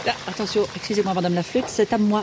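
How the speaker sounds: put-on Belgian accent, broad and singsong. Belgian saxophone Gudule chatting with the child, Belgian accent. Pourquoi tu parles avec cet accent bizarre.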